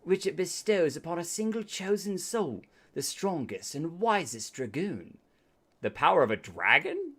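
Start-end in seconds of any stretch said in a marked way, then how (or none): 0.0-5.2 NPC voice. Acted. Reads NPC dialogue in character.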